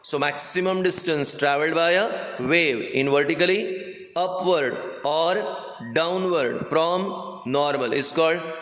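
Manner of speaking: very slow, spaced-out dictation. Acted. Teacher dictating a definition to students, slow dictation. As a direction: dictate in short chunks with long pauses.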